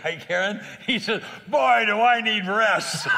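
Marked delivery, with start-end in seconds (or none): 1.5-3.1 loud, high, drawn-out mock shout; imitated yelling. Taxi driver answering a scripture about rest, imitated yelling. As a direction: yell it like the worked-up driver, stretching the words. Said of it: "And he yells, he says, it's the same intensity of his yelling".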